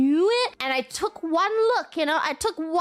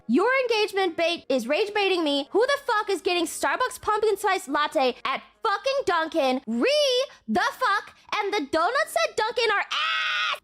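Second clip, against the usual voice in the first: reading her own furious post aloud; hammed-up outrage, rising at the end; mock angry rant; 5 semitones higher than usual. Streamer reads her angry tweet to chat, mock outraged. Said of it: "let me read what I said".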